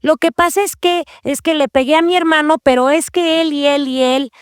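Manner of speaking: light mock child's excuse voice; imitating a child. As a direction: play a little kid blaming his brother. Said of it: "niños chiquitos ... que te dicen".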